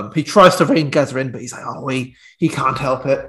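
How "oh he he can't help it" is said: put-on soft, half-hearted Geordie accent for Bobby Robson; terrible Geordie accent. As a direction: mumble a poor Geordie imitation. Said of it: "That's a terrible Geordie accent".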